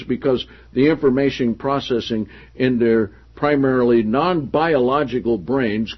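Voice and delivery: projected, deliberate reading of a book; emphatic read-aloud. Acted. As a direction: read the passage out to the room with emphasis. Reads book passage aloud.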